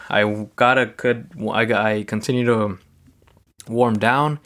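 talking past a tickle in the throat; something in throat. Real, not acted. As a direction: hold back a cough while speaking. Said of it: "something stuck in my throat".

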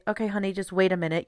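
quick, mildly patient parent. Acted. Parent answering a kid's question, patient. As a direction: lightly soothe a child while putting them off. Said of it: "the patience to say".

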